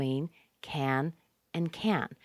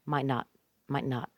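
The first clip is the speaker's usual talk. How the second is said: "might not" said quickly as one unit; quick, compact "might not"; quick reduced demo; 3 semitones lower, 3 dB quieter than usual. Shown as a demonstration. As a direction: run "might not" together, short and low-key. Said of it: "So we make it very fast".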